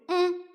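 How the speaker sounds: small, high murmured "mm"; soft closed-mouth acknowledgement; hummed assent. Acted. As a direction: hum a quiet tearful yes. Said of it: "Jwala മൂളിക്കൊണ്ട്".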